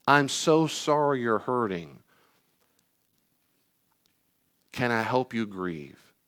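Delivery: slow, consoling parent voice; nurturing parent. Acted. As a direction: gently console a hurting child, taking time. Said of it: "what you're supposed to have heard".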